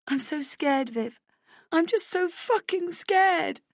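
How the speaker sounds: high, slow, tearful plea; sobbing fear. Acted. Rach confessing her terror to Viv, high and tearful. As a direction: beg through the tears. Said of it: "I sob".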